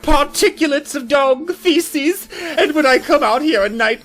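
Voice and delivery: lightly voiced scolding neighbor; annoyed neighbor.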